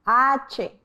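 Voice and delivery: "H" said as hache; name "H" the Spanish way. Shown as a demonstration. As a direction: model "H" for the class. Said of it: "Repeat after me".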